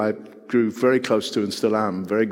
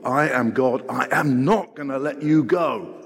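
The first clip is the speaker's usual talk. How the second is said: emphatic insistence. Acted. Preacher voices God's insistence.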